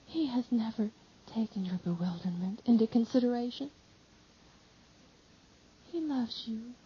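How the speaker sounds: soft, halting words with breaths between; mother soothing the weeping disciple, panting softly; panting pauses. Acted. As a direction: comfort him while short of breath. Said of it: "speaks with pauses between the short sentences, as if she were panting".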